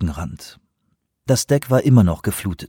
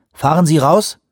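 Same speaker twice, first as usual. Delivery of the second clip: raised voice, calling across the hall; 8 semitones higher, 6 dB louder than usual. A narrator's reading. Anawak calls across the flooded deck, raised voice. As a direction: call over to him, louder. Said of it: "rief Anawak".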